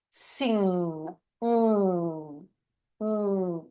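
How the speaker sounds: nose pinched shut; blocked nose. Shown as a demonstration. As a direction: say it with blocked nostrils. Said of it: "you block your nose".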